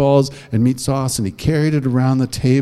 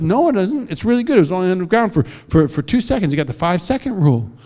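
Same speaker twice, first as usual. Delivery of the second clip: put-on cheeky girl; 5 semitones higher, faster than usual. Girl defends eating sandwich.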